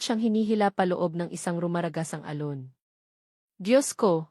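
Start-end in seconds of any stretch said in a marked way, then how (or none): 3.6-4.3 cry of fear. Acted. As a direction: call out to God in sudden fright. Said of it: "Isang sigaw na puno ng purong takot".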